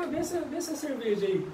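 slow, teasing buddy voice; egging a friend on to drink; pushy drinking buddy. Retold or imitated. Friends urging him to drink.

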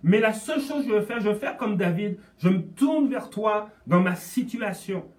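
voix haute et pressante, implorante; prière fervente. Retold or imitated. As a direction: crie ta prière au Seigneur. Prière citée, appel à Dieu. (prière fervente)

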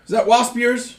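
high weasel voice asking. Acted. GM voices Gerhardt.

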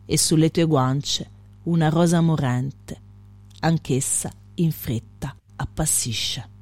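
measured verse recital with pauses between lines; poetry reading. Acted. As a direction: read the poem line by line, letting each phrase settle.

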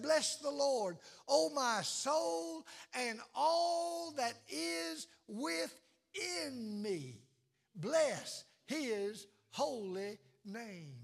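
slow, stretched, sinking reverent blessing; drawn-out praise. Pretend. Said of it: "That you said".

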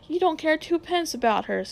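a mild touch of savage anger; savage retort. Acted. Boy accusing his uncle of not caring for his mother, mildly savage. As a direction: bite back at him, lightly. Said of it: "Diggory said savagely".

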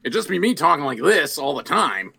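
lightly put-on Michigan dad accent; a hint of Midwestern Michigan vowels; demonstrating dad's Michigan voice. Shown as a demonstration. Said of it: "if I did my dad".

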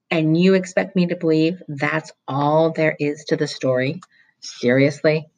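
acid, suspicious interrogation; stern vice principal. Acted. Vice principal threatening Roy with truancy police, acidly.

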